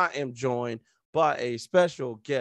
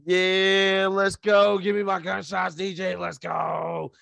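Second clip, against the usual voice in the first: hype man call; 5 semitones higher than usual. Acted. Hype calling DJ for gunshots.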